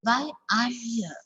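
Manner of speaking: "I'm" reduced, unstressed; weak I'm. Shown as a demonstration. Teacher modelling weak "I'm". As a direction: let "I'm" slide weak. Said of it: "I'm is a weak here".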